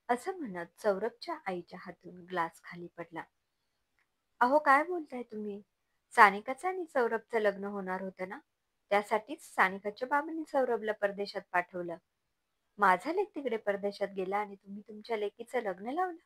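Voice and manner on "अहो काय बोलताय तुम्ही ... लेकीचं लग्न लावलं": acted outrage of a wronged mother; indignant disbelief. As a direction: protest the betrayal, mildly heated. Mother reacts to news of the wedding. (धक्का बसून संतापाने जाब विचारत)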